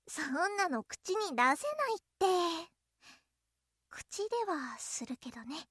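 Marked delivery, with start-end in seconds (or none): 3.9-5.6 sly aside. Acted. Lewd aside under breath.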